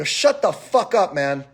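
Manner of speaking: drawn-out, heated retort; retold angry outburst. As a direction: re-enact shutting someone down. Retells snapping back at him.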